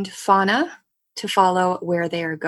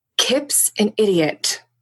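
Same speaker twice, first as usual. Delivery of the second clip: stage-whispered aside. Voicing a character sneaking up on a companion: whispering. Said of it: "sneaks up to Fauna and she says".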